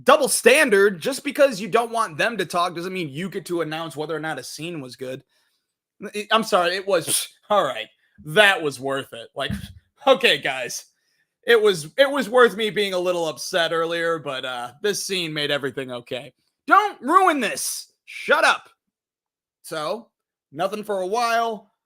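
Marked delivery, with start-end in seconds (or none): 0.0-5.2 imagined angry retort. Retold or imitated. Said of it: "I wanted to be like". 16.6-18.7 high, slow mock shush; imitating a fed-up moviegoer; mock hushing.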